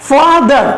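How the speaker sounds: "Father" in two drawn-out units; split into syllables. Shown as a demonstration. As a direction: say "Father" slowly as fa-ther. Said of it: "is a first one unit".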